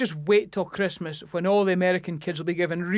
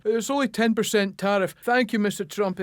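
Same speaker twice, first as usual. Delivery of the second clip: grovelling Britain. Retold or imitated. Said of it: "when he goes".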